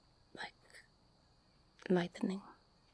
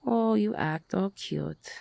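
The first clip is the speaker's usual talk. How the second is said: accusing; 4 semitones higher, 7 dB louder than usual. Acted. Bitter accusation of the listener.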